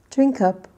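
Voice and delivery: loud model phrase, land firmly on "up"; second-word stress. Shown as a demonstration. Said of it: "a little bit louder and just a little bit longer".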